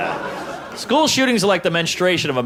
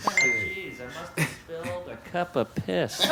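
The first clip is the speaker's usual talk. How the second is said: sheepish excuse; 9 dB quieter, slower than usual. Retold or imitated. Retold excuse to friend.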